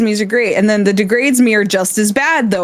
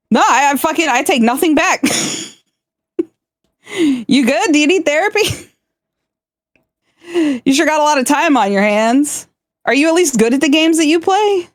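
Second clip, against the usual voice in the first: mock roast; 7 semitones higher than usual. Degrading Milky, redeem performance.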